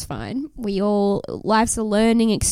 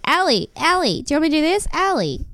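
mocking whiny guy; 6 semitones higher than usual. Mocking Tate's repeated calling.

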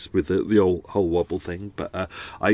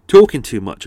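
talking too much, said much louder; louder repeat; 10 dB louder than usual. Real, not acted. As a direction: repeat it loud, with a blocked-up nose. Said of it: "I'm getting a cold".

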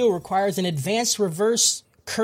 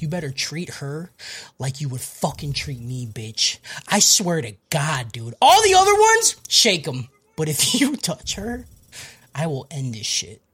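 very angry; 4 semitones lower than usual. Acted. Recapper acts Yuta warning off Rika's attacker, mock angry threat. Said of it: "gets very angry".

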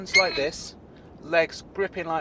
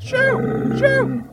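very high, loud character squeal; frantic squeaky shout to drive it off; panicked shooing; 9 dB louder than usual. Acted. Claude shoos the bull away.

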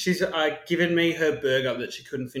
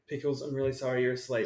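hushed so the cat stays asleep; quiet at night; 2 semitones lower, 7 dB quieter than usual. Real, not acted. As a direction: speak softly near a sleeping pet. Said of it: "I don't wanna wake him".

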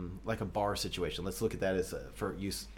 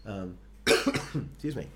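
hoarse from two late nights; raspy voice. Real, not acted. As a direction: speak with a raspy, worn voice. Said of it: "I'm all raspy".

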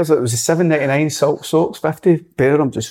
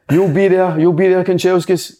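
higher, firm mock order; insistent boss; 7 semitones higher than usual. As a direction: lay down the law like an angry gaffer. Manager insists player travels.

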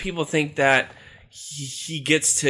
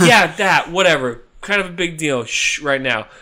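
dismissive villain; 5 dB louder than usual. Acted. Satan brushing off.

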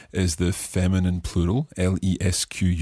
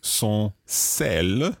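slow teaching; 3 semitones higher, much slower than usual. Shown as a demonstration. Teacher breaks phrase down for learners.

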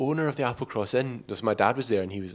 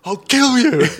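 high, loud threatening yell; imitating the dad yelling a threat; mock threat shout; 13 semitones higher, 11 dB louder, slower than usual. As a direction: scream the threat like the enraged dad. Father threatens them.

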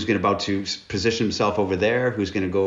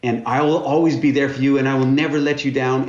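high, pleading, hammed-up tearful voice; mock weeping plea; 5 semitones higher, 5 dB louder than usual. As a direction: play your younger self begging through tears. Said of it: "I'm weeping and saying".

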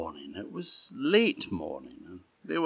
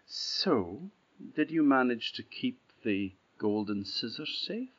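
sweet princess; 4 semitones higher than usual. Acted. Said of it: "smiled a sweet, sweet smile and said".

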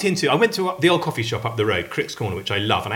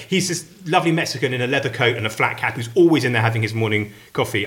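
normal talking voice

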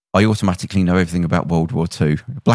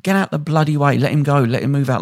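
higher-pitched, mock exasperated command; retold urgent ordering; 6 semitones higher than usual. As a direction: imitate a journalist clearing a crowd. Journalist ordering a crowd aside.

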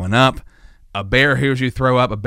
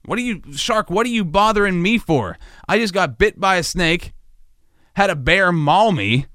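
higher-pitched, hammed-up whine of complaint; mock exasperation; 5 semitones higher than usual. Lost hiker complaining to a shark, mock exasperated. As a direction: plead your hard-luck case, comically aggrieved.

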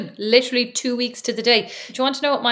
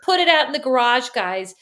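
mock American accent bossing the boys; light American accent impression; 3 semitones higher than usual. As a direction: tease her sister with an American mom voice. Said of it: "heard you with an American accent".

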